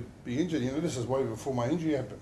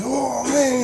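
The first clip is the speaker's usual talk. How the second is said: retold crying; 11 semitones higher, 8 dB louder than usual. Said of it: "And he was crying too".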